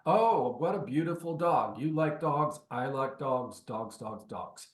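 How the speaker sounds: gushing agent cooing about a dog, trailing away; mock gushing small talk. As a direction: ham up shallow small talk, fading off at the end. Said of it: "connecting is not".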